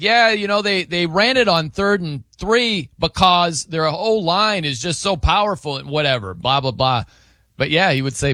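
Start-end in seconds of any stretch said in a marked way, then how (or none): 0.0-7.0 mock announcer commentary. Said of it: "he'd be like".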